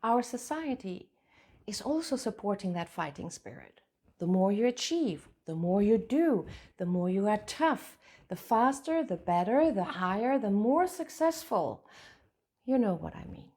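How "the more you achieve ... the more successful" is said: louder, insistent run of demands piling up; driven, pressing list. Acted. Coach voicing society's pressure to achieve, loud and insistent. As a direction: push each item harder, one straight after another.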